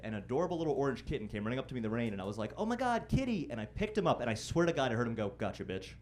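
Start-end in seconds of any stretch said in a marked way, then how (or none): 2.6-3.5 very high-pitched gush over a pet; delighted cooing. Retold or imitated. Finding an orange kitten in the rain, high excited coo. 5.4-5.9 lightly voiced scheming kitten, low; sly cat. Kitten to the man who picked him up, low sly gloat.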